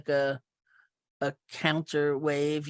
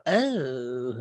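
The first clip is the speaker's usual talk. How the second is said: mildly weirded-out "oh", pitch gliding down; awkward retold "oh", politely backing away; put off; 2 semitones lower than usual. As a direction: imitate a put-off, drawn-out "oh". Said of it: "like that was just a little too weird".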